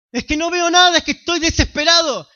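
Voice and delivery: más agudo y fuerte, rápido, queja angustiada; súplica angustiada de quien no ve nada; creyente desesperado. Retold or imitated. Creyente desesperado imitado, luego respondido. (el creyente le reclama a Dios, agudo y angustiado)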